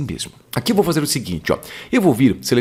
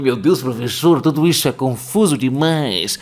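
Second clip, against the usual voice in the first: aluno confuso. Pretend.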